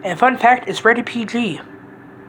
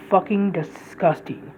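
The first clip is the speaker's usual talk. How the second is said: "fucking disgusting" with each word weighted and set apart; emphatic disgust; 4 dB quieter, slower than usual. Real, not acted. Reviewer warning viewers off a film, "fucking disgusting" said emphatically. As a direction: lean hard on "fucking" and on "disgusting". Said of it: "With a capital fucking".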